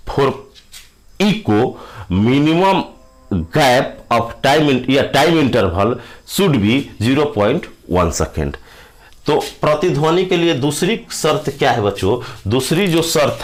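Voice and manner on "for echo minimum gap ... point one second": slow, word by word, for note-taking; dictation pace. Shown as a demonstration. Teacher dictates the echo rule to students, slowly. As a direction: spell it out slowly so they can write. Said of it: "dictating a note for students".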